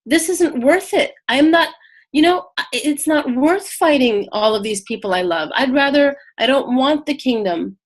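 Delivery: retold panic, mildly acted and rising in pitch; a touch of flustered protest; mock freak-out. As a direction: imitate someone balking and stumbling over words. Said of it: "who's freaking out, going".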